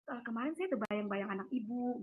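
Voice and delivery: hushed, tentative imitation of the midwife; quietly hesitant retold remark; timid. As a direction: broach it carefully, voice low and soft. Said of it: "dia mau ngomong takut-takut".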